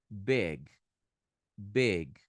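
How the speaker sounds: "Big" with a short lax i and closed g; crisp model of English "Big"; correct English pronunciation. Shown as a demonstration. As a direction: say "Big" as one syllable, no vowel after g. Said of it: "Big não é big".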